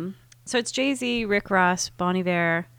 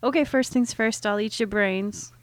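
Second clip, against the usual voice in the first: put-on white girl voice; 3 semitones higher, 3 dB louder than usual. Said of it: "in my white girl voice".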